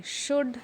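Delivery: should said as shood with no L; should, drop the L; silent L. Shown as a demonstration. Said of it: "उसको ज़ोर से पढ़ेंगे".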